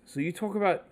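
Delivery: softly imitated, discreet question; hushed retelling of a furtive question; a little bit quietly. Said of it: "a little bit quietly, he goes".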